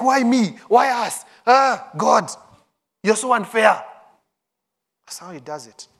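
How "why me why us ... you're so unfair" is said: mock lament. Frustrated person complaining to God.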